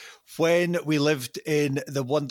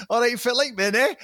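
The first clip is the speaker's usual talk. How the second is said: higher-pitched, broad Doric greeting; 6 semitones higher than usual. Retold or imitated. Chatting to an Aberdeen neighbour on the doorstep, broad Doric. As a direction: imitate yourself lapsing into broad Doric. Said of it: "it would get completely Doric".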